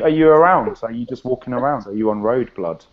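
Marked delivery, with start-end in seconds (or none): 1.9-2.8 London street slang. Shown as a demonstration. Explaining slang to the hosts, London street accent. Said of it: "That means, are you".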